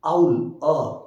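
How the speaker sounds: "owl", then its opening "अ" isolated; vowel sound demo. Shown as a demonstration. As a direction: say "owl" and pick out the vowel "अ" after a break. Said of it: "when we speak". ("owl" की पहली ध्वनि "अ" अलग करके)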